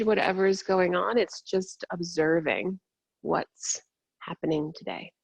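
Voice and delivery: calm meditation voice with long pauses; guided meditation. Real, not acted. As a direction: ease them inward, unhurried and measured.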